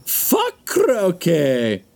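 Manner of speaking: high, drawn-out comic outburst; Robin Williams. Acted. Podcaster quoting a stand-up routine, high and drawn out. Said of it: "Oh, Robin Williams".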